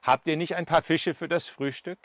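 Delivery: high opening call, lightly acted; mild friendly hail across water. Jesus on the shore calls to his disciples, lightly calling out. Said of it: "Aber er ruft zu ihnen".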